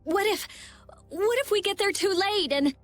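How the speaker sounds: fretting aloud; worried. Acted. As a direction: voice rising with worry, breaking off unfinished. Fears arriving too late for her.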